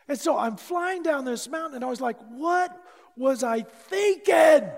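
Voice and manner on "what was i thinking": high, loud, slow cry of fear; panicked shout; terrified yell. Retold or imitated. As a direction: yell it mid-plunge. Flying down the mountain, terrified.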